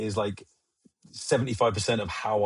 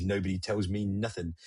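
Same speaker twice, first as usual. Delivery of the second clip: Bill Bailey line; 5 semitones lower, 6 dB quieter than usual. Retold or imitated. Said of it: "Bill Bailey's".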